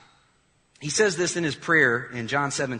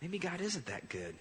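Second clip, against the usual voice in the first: doubting; 2 semitones lower, 6 dB quieter than usual. Pretend. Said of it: "you said".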